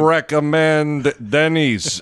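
put-on slow, thick accented complaint; barbarian voice. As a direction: sulk like a hulking barbarian. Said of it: "such a ridiculous character".

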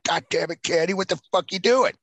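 mock outraged rant. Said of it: "Now I'm gonna be like".

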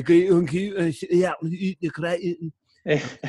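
a high, loud, garbled Scottish rant; Scottish rant impression. Host mimics Nicol's Scottish rant to Craig, in a garbled Scottish accent. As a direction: mimic a thick Scottish accent rattling on fast. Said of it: "Nicol was going off on some Scottish rant".

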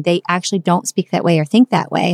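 ordinary talk, nothing marked

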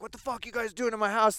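hammed-up angry what-are-you-doing; a mock pissed-off wake-up; mock outrage. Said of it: "wake up with them there and be like".

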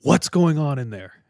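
half-shouted demand; mild acted yell. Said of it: "the man yells".

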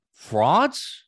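loud, high scoffing question; mocking jeer. Host mocking Georgia fans after the blowout, loud high scoff. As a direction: scoff it like a heckler.

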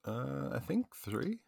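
soft unsure whisper. Real, not acted. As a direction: breathe it out, barely voiced. Unsure aside during game talk.

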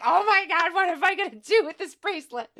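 high, loud and fast, gushing over a gift; excited squeal. Retold or imitated. Telling a friend about the gift, high excited squeal. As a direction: squeal with delight at the present. Overjoyed at getting the bracelet.

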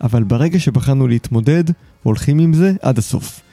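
polished, articulate host introduction; podcast intro read. Acted. Host introduces his guest to listeners, scripted intro read. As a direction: present the show and guest from a script.

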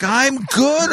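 high, drawn-out over-friendly answer; stretched, patronizing cheer; exaggerated slow talking. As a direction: imitate talking down to someone. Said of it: "trying to talk to me slower".

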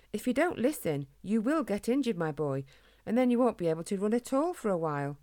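lightly voiced dad warning his boy; lecturing father. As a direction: lecture a child about the risks. Father warns his son.

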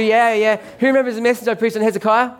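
a livelier second ask; eager repeat. Shown as a demonstration. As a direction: push the question to get hands up. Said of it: "is it coming back to you?".

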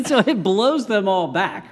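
high giggle running into words; laughing. Real, not acted. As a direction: laugh through the sentence. Laughing at silly scene.

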